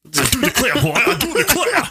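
Southern gentleman accent, hammed-up; mock Southern accent, boy I do declare. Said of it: "Southern gentlemen".

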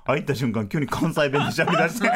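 normal talking voice

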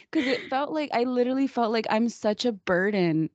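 tearful, wavering voice; getting emotional. Real, not acted. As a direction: close to tears, half laughing. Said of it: "Oh my God, I'm getting emotional".

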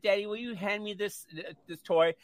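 lightly voiced small child; a hint of a little kid asking; little boy. Little boy asking his father for a toy, lightly childish. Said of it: "And he said".

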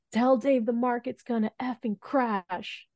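high, slow mock yell without much volume; retold yell. Caller yells market news to the intern, mock yell. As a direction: imitate an urgent order yelled down the phone. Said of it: "someone just yells at me".

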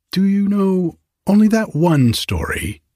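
high, sniffy rat voice. Acted. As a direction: ask like a bored rat. Rats ask, unimpressed.

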